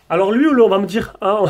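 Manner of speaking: words through a laugh. Real, not acted. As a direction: chuckle while saying it. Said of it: "je rigole à la question".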